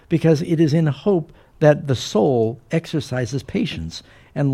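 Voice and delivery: measured, emphatic sermon recitation; preaching quote. Retold or imitated. Preacher quoting John Bunyan to the congregation, emphatic. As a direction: deliver Bunyan's words with preacher's weight. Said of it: "John Bunyan said".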